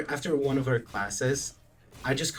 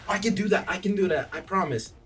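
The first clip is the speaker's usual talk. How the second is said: eager, higher-pitched promise; keen, insistent and raised in pitch; retold hype; 5 semitones higher, faster than usual. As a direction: act out being hyped up. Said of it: "And I, I'm hype".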